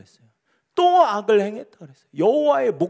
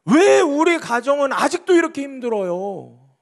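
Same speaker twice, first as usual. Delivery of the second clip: louder, slow, indignant demand; arguing Gideon; 3 semitones higher, 3 dB louder, slower than usual. Acted. Pastor voices Gideon arguing with God, indignant. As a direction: press the Lord hard, why me. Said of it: "따지는 거예요".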